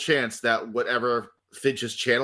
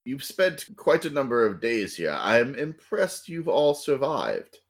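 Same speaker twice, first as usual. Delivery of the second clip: slow theatrical villain menace. Acted. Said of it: "your evil villain monologue".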